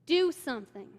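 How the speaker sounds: sharp, loud urgent order to her husband; loud mock panic; urgent demand. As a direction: push him to act now. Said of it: "and she goes".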